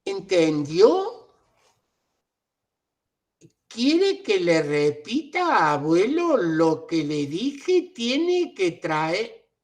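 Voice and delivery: slow, talking down as if he understood nothing; condescending to an elder. Acted. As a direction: drag the words out like he is slow. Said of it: "tratando a una persona minusvalorándola". (lento y condescendiente, como a alguien que no entiende)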